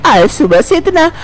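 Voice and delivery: put-on a nagging elderly amma, worried; fussy old mother-in-law. Mother-in-law answers the bahu's calls, fussing.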